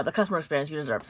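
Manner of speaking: fast corrected rerun of the phrase; quick rerun. Shown as a demonstration. Reading the company letter to viewers, a quick corrective reread. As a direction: rush through the fixed phrase fast.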